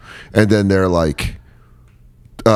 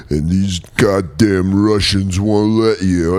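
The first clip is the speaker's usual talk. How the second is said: Rambo; much slower than usual. Acted. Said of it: "And Rambo's like".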